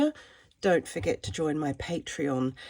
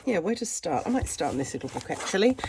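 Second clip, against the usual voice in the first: croaky voice; faster than usual. Real, not acted. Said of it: "Please excuse my croaky voice".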